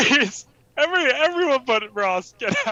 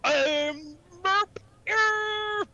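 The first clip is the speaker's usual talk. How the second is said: garbled mock-Cockney gibberish; incomprehensibly thick Cockney; 4 semitones higher, slower than usual. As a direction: mangle every word in overdone Cockney. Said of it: "so thick we don't know what you're saying".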